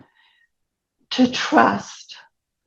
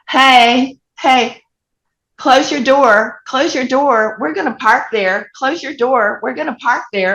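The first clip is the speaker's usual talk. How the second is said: bossy stranger shouting from a truck, lightly acted; retold yelling; 5 semitones higher than usual. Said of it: "And she's yelling".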